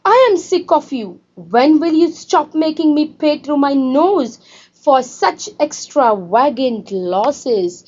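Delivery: mildly voiced mother scolding her daughter; mock angry shout. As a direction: scold the child like a fed-up mother. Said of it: "Mama shouted".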